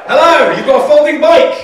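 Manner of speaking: high, loud mock cheer; over-excited greeting. Real, not acted. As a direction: gush at them brightly. Bouncy greeting to audience member.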